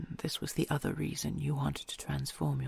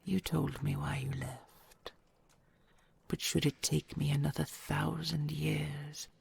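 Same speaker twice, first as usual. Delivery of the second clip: hushed, intimate whisper to a loved one; tender whisper. Acted. Dragon whispering vows to her treasure.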